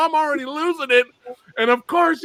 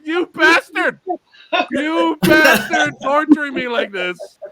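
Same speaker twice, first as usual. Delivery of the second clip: mock cursing; 4 semitones higher, slower than usual. Cursing the director at the TV, hammed-up. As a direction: curse the director with comic outrage. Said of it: "I was cursing you".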